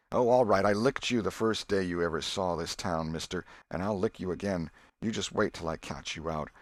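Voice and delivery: a touch of jealous grumbling, rising at oh all right; grumbling threats under his breath; through gritted teeth. Acted. Tom grumbling threats at his rival, mildly through gritted teeth. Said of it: "grating his teeth".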